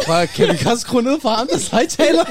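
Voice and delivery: high, slow words squeezed out through laughter; asking while still cracking up; real giggling request; laughing. Real, not acted.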